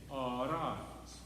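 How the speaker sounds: Arise with a single tapped R; flipped R. Shown as a demonstration. Choir director demonstrating a flipped R in Arise. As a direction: tap the R once in Arise. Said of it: "flip your R if you can".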